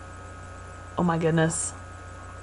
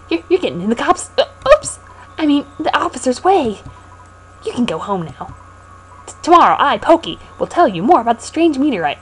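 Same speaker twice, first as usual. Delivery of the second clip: Pokey voice; 5 semitones higher than usual. Acted. Voicing Pokey character.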